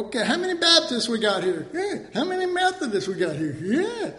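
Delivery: quick roll call with a high cheer; hammed-up crowd-rousing host; mock rally host. Preacher parodies a conference roll call, mock rally host.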